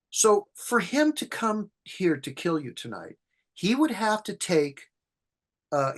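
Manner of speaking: lightly voiced mom talking her boy down; soothing mother. Mother calms her frightened son, patient reasoning.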